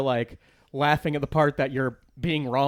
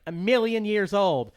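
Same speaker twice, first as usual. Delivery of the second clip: imitating a smart-mouthed kid, higher and drawn out; snarky kid; 5 semitones higher, slower than usual. Kid sassing a comic who asked his age, snarky. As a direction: give a slow, higher, cheeky kid's answer. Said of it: "being a snarky dick".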